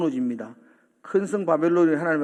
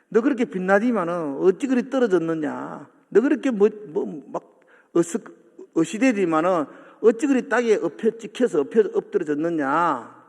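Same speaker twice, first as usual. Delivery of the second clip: 조롱; 2 semitones higher than usual. Acted. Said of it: "바벨론을 조롱하는 거예요".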